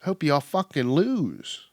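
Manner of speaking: high sharp "What?" then a slow, sneering curse; mock snotty retort. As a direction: toss it off like a sore loser. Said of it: "You're like".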